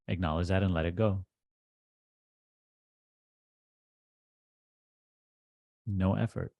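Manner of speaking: measured instructions with long pauses between phrases; deliberate meditation teacher, key phrases pressed; guided meditation. Acted. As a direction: guide them firmly into letting go, leaving long silences.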